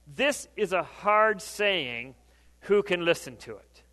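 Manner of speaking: drawn out slowly, weighing each word; slow scripture reading. Shown as a demonstration. Preacher reading the disciples' complaint slowly and deliberately. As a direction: read it slowly, like a heavy verdict. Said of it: "When many of his disciples heard this".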